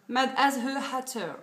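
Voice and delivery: trying out an English accent on a nail polish name; French speaker's shaky English accent; English accent attempt. Shown as a demonstration. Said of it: "J'essaye de faire l'accent anglais".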